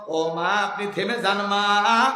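put-on slow, tender call to an old mother; gentle call. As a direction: ask her kindly to stop, taking your time. Abu Bakr gently hails old woman.

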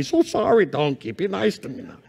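a hint of a meek, sorry rider; sheepish Balaam. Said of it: "Imagine what he said to the donkey".

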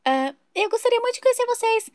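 chatty new neighbour. Acted. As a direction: play the overexcited new neighbour Sandra. Nova vizinha elogia a casa. (vizinha empolgada e tagarela)

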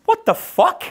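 very high, gasped disbelief; shocked girls impression. Girls seeing the ripped card, high mock shock. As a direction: mimic scandalised girls in a high voice. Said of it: "The girls are like".

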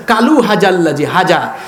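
imitating কালু read with a plain Bengali k, laughing; mock misreading. Preacher laughs while mimicking a Bengali-script reader. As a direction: parody the wrong reading with a chuckle. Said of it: "তো বলতেছে".

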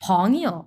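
"ফং ইয়ো" with "ইয়ো" released at once; neutral-tone ending. Shown as a demonstration. Teacher repeats the word friend for learners, neutral-tone ending. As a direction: stretch "ফং", drop "ইয়ো" briefly without its own tone. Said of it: "এটা একটা neutral tone".

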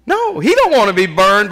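ordinary delivery

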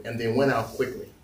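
deliberate scripture reading with pauses; measured, low-key Bible reading; slow reading. Real, not acted. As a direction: read it slowly, phrase by phrase. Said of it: "I'm gonna read this slowly".

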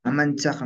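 Mamanchaj said "ma-MAN-tsaj"; Huaylas variant. Shown as a demonstration. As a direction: end Mamanchaj in tsa plus a back-of-throat fricative. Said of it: "lo pronunciamos como Mamanchaj".

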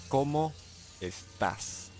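¿Cómo estás? split with a pause and fading; ¿Cómo, pause, estás? said slowly; slow Spanish demo. Shown as a demonstration. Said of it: "But it is".

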